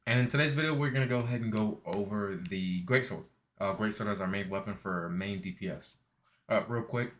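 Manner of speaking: talking around gauze after a tooth pull; gauze in mouth. Real, not acted. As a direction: mouth barely opening, gauze inside. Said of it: "it's because I got my tooth pulled out".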